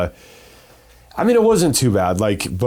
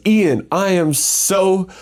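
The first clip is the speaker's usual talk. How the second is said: high, slow imitated Canadian accent; 8 semitones higher, much slower than usual. Canadian girl calling from the stands, Canadian accent. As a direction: draw it out in a higher-pitched Canadian girl's accent. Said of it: "in her Canadian accent".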